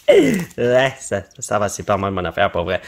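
low voiced son. Quoting the son's reply in low voice.

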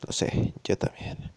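hushed, gentler reply; suddenly warmer. Acted. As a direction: soften toward her. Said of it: "Su tono de repente se vuelve más cálido". (novio le responde con un tono más cálido y suave)

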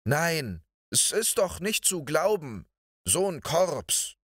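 high, scornful indignation; contemptuous. A narrator's reading. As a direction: sneer in disgust at the flock. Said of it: "Guste sagte voll Verachtung".

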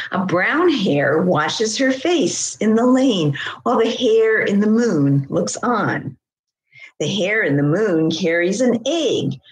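lilting, unhurried poem reading; gentle rise and fall of a poetry recital. Acted. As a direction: read it as verse, lifting the key words. Reads poem about hare.

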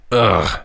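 short growled ugh; brief annoyed growl; disgusted growl. A narrator's reading. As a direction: grunt it in disgust. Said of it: "growled George".

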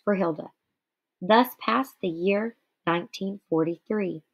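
measured read-aloud narration; story reading. Acted. Teacher reading Night aloud to students, measured narration. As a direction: read the memoir passage to the class with steady care.

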